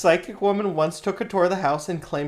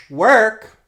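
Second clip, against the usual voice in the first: hype shout; 6 semitones higher, 12 dB louder than usual. Real, not acted. Hyping Susanna Ingersoll.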